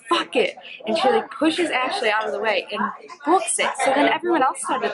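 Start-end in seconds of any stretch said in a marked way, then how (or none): 0.1-0.6 mock yell. Vlogger retelling a pushy girl in line, mock yell. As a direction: imitate a yell without full volume. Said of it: "she yells".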